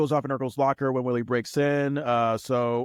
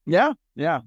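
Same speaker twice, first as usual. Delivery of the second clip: normal talking voice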